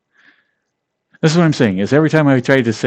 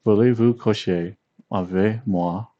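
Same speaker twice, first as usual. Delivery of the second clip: "Voulez-vous coucher avec moi?" at normal pace with a light English accent; romantic French try. Shown as a demonstration. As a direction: smoother romantic French line. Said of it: "it will sound very romantic".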